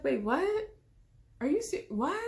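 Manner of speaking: high-pitched, incredulous questioning; stunned disbelief. Retold or imitated. Replying to his pregnancy news, in stunned disbelief. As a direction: break off, too thrown to finish.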